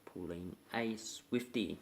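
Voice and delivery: pulling a Swiftie said slow and clear, each word spaced; introducing the slang term slowly; slow, careful teaching take. Shown as a demonstration. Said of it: "today we're about".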